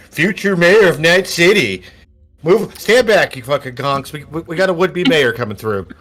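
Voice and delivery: loud, high town-crier call; mock announcement. Kid heralding the future mayor to bystanders, loud.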